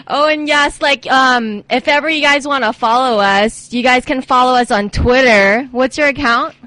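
loud radio plug; shouting. Real, not acted. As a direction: call it out too loud. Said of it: "why are you shouting on the microphone".

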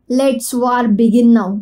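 very slow, each word drawn out; slow declaration. Acted. Woman declaring war on her fiancé, very slow. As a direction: spell out the challenge slowly.

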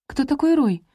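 high, light chirpy question; chirping. A narrator's reading. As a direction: chirp it like a bird. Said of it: "прощебетала Бейли".

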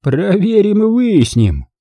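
slow, emphatic declaration; decisive uncle taking charge; resolute. A narrator's reading. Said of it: "решительно заявил дядя Паттон".

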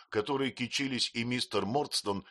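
ordinary delivery, nothing marked

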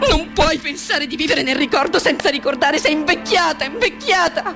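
insistent reproach, rising in pitch at the end; bitter self-reproach. Acted. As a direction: scold yourself, building to a cry. Self-reproach in a dramatic monologue. (rimprovero amaro, sempre più acuto)

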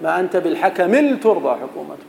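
poem quote. Shown as a demonstration. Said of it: "جرير".

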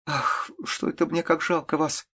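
put-on high, tearful young voice; on the verge of crying, pitied; girl speaking through tears. A narrator's reading. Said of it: "сказала она сквозь слёзы".

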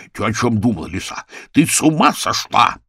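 talking round a cigar; words mumbled past a cigar; cigar in mouth. Acted. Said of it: "не вынимая сигару из пасти". (с сигарой во рту)

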